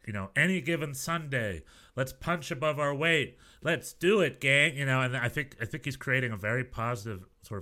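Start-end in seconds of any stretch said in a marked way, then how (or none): 0.4-4.8 mock pep talk, pitched up a little; lightly voiced team motivator; rah-rah American mentality. Sports fan rallying the team, mock rah-rah. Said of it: "sports mentality is, i-, i-, is, like".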